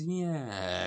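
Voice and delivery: high, drawn-out mock agreement; awkward bluffing yeah. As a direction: imitate someone covering up having forgotten. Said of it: "as if to think".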